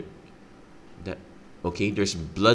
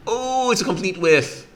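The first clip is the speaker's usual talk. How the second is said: surprised; 12 semitones higher, 6 dB louder than usual. Real, not acted. Bad luck mill reveal.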